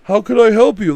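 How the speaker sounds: high, chirpy customer-service voice; overly polite greeting. Retold or imitated. Mocking the husband greeting an intruder, high and sugary. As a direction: sing it out falsely friendly. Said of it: "too much like".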